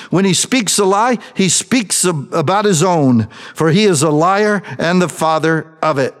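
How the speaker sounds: preached scripture, rising in force; scripture reading. Acted. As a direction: proclaim the verses like a preacher.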